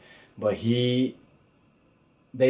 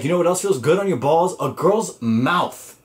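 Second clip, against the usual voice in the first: cocky punchline; 6 semitones higher, 4 dB louder than usual. Retold or imitated. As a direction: savor the punchline. Retelling Chris's punchline.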